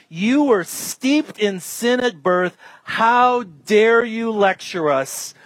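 slow, emphatic scolding; acted outrage, drawn out; indignant rebuke. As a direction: put him in his place, word by word. Indignant rulers rebuke the man.

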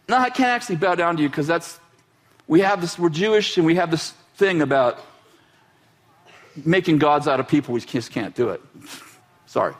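low, steady refusal; calmly refuse, voice dropped low; Mordecai refusing. Retold or imitated. Mordecai refusing Haman's demand.

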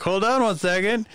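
high-pitched imitation of a kid; eager kid. Kid about to open the back door, eager. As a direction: lightly put on an eager kid's voice.

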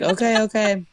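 laughing through the words; laughing mom voice. Retold or imitated.

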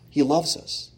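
He loves us said softly, almost to himself; soft, intimate. Real, not acted. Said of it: "repeated line said two ways".

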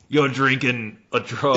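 hammed-up Aussie declaration; muddled Australian-Cockney accent. Mate insisting it is a drug, in a broad Australian accent. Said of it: "that sounds real Australian".

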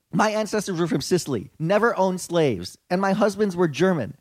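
lightly voiced white-girl reviewer, punched words. Reading a tourist's plantation review to co-hosts, lightly put-on white girl. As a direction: read the complaint as a mock white girl. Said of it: "in my white girl vo-, voice".

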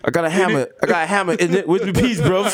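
jokey London slang voice; playful fake British accent; mock London accent. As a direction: ham up a London lad accent. Joins mock British actor bit.

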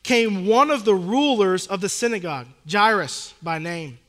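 measured, earnest Bible reading; scripture reading. Acted. Pastor reading Mark to the congregation, solemn reading. Reads scripture passage aloud.

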